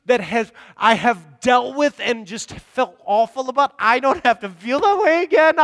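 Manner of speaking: overwhelmed joy at being forgiven; breathless amazement building up; awed new believer. Retold or imitated. Voicing new Christian's wonder.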